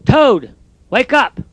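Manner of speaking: misread line. Shown as a demonstration. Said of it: "I misread that".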